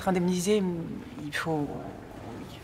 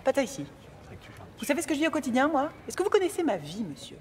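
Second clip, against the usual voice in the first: indignant outburst; 6 semitones higher, faster than usual. Acted. Offended lady rants back.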